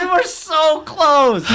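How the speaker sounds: loud, high and slow wail; frustrated shout. Real, not acted. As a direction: cry out, so close to finishing. Broke the take.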